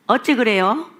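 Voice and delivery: showing off a Jeolla 어째; Jeolla dialect. Shown as a demonstration. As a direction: drop in Jeolla dialect, a light touch. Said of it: "제가 어째 소리를 잘하거든요". (전라도 사투리로 가볍게)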